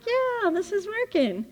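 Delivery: high, airy, dreamy voice; blissed-out relief. Retold or imitated. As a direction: float up into a happy high tone. Relaxed driver, blissed out.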